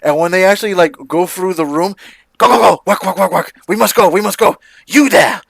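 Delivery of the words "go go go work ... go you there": urgent hurry. Acted. Toymaker rushing staff through workshop.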